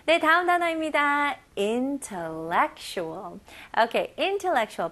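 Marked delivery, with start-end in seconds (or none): 1.6-3.4 slow model word. Shown as a demonstration. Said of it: "여기 잘 들어보세요".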